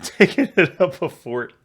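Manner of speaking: loud, high, laughing through the words; laughing, unsure. Real, not acted. Listener guessing at a dialect clip, laughing and unsure. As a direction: give up guessing and crack up.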